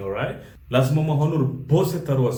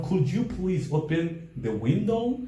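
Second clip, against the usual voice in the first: polite request; 3 semitones higher, slower than usual. Shown as a demonstration. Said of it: "present polite request".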